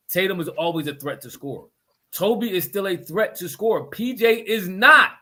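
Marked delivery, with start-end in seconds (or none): 3.9-5.1 higher-pitched, loud exasperation; worked-up mad. Real, not acted. Arguing about a player kept in the game, mad. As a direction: argue it heatedly, hitting words hard. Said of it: "I'm coming so mad at P J".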